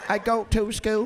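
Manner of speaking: mock Filipino accent, drawn out; hammed-up Filipino-accented answer. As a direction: imitate a Filipino speaker, slowly. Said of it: "Are you Filipino? Why you sound like that?".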